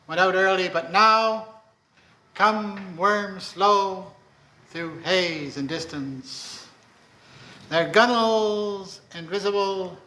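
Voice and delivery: slow, spacious poetry reading, lines falling away at the ends; poem recital. Acted. Poet reading a requested sea poem to the audience, slow recital. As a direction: paint the sea slowly.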